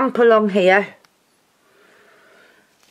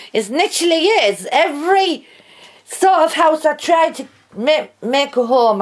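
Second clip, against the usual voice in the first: laughing while talking; 6 semitones higher than usual. Real, not acted. Laughing at the falling house.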